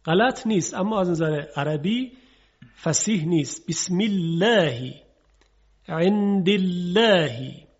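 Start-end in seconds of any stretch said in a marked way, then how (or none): 3.7-4.9 بسم الله slow, with a light, thin lam in الله. Shown as a demonstration. Teacher demonstrating the thin lam after kasra. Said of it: "قبلش کسره است". 5.9-7.7 عند الله slow, with a light, thin lam. Shown as a demonstration. Teacher demonstrating the thin lam after kasra. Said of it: "قبلش کسره است".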